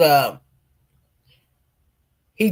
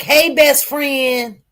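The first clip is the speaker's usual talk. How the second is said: higher, drawn-out mock greeting; chummy greeting; 5 semitones higher, much slower than usual. Retelling two best friends greeting each other, chummy. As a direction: imitate a pally hello, slow and high.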